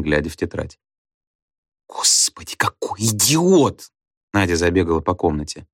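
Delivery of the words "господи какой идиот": exasperated. A narrator's reading. Nadya exasperated.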